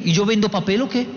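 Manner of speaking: mildly sarcastic rhetorical question; ironic. Retold or imitated. Dad to son on toilet, ironic. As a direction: ask it with understated irony, rising at the end. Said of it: "se lo digo con ironía".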